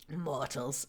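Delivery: soft, voiced near-whisper; softly voiced stage whisper; hushed whisper. A narrator's reading. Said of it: "he whispers".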